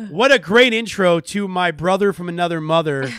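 mock game-show introduction; game-show announcer. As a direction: announce the next guest like a game-show host, drawing out the name. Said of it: "You and your Price is Right".

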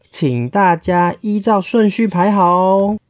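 the usher bird calmly asks everyone to line up; polite bird announcer. Acted. Bird to the queue, politely asking them to line up, slow and high. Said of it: "鸟儿现在飞过来说".

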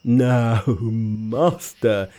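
low pig voice with a chuckle; Pigsy laughing. Acted. Pigsy chuckling at his frightened master. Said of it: "Pigsy laughed".

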